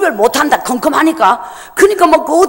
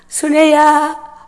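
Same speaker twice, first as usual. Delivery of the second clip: tender call; much slower than usual. Retold or imitated. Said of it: "엄마가 막 울면서 내를 불러요".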